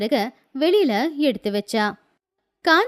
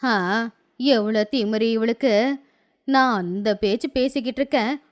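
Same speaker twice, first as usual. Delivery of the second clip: put-on grumpy old woman; 3 semitones lower than usual. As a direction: complain like a bitter hungry old lady. (கோபமான வயதான பாட்டி குரல்)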